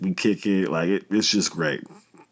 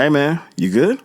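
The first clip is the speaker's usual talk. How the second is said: raised call, higher and louder; yelling across the street; 7 semitones higher, 5 dB louder than usual. Retold or imitated. Calling to the upset teen across the street, loud friendly yell. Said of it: "So I yell out across the street".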